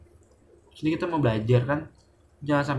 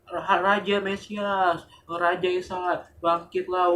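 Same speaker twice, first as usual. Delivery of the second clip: mock cheering; 5 semitones higher, slower than usual. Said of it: "sorak-sorak".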